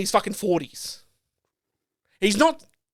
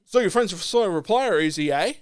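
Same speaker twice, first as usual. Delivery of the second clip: mildly sarcastic imitation; condescending. Shop worker handing back an ID, mildly condescending. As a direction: repeat it back with light disdain. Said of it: "he was condescending, sarcastic, like, like, really dismissive".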